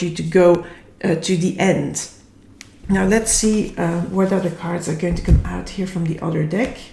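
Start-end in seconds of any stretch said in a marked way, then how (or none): 2.9-6.8 hoarse, tired morning voice; a bit husky and croaky; frog in throat. Real, not acted. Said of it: "have a little bit like a frog in my throat".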